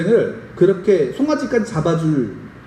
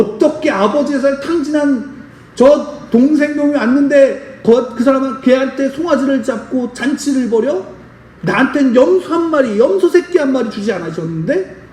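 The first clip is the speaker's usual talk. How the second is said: higher-pitched, mock-aggrieved elder son; mild acted outrage, pitched up; retold indignant anger; 4 semitones higher than usual. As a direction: protest the unfairness, acting out a resentful brother. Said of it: "울분을 노한 거예요".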